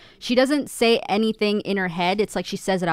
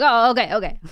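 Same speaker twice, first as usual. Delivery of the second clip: tag; 3 semitones higher, 6 dB louder than usual. Retold or imitated. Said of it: "She's like".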